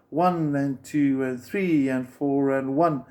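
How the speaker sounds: slow count, leaning on "one" and "three"; accents on one and three. Shown as a demonstration. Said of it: "going louder".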